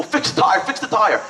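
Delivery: high, urgent mock yell, no real volume; retold scream. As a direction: imitate an officer yelling orders at his people. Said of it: "He's screaming at his people".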